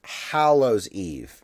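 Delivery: HALLOWS with a short A as in cat, drawn out slowly; slow, deliberate Hallows Eve; careful pronunciation. Shown as a demonstration. Co-host asks how it's pronounced, slow careful demonstration. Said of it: "how is it pronounced?".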